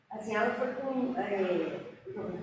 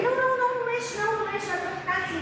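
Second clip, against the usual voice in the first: urgent stop; 10 semitones higher, much faster than usual. Retold or imitated. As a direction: rush to stop her moving anything. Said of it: "Aí eu falei". ("não, não" agudo, rápido e aflito)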